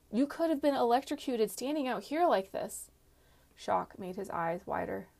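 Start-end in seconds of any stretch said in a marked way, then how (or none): 0.1-2.9 alarmed. A narrator's reading. Worried outburst in storm.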